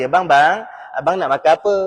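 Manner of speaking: gentle, coaxing wifely voice; speaking nicely. Acted. Wife asks her husband about eating, nice and gentle. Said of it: "cakap elok dengan lelaki".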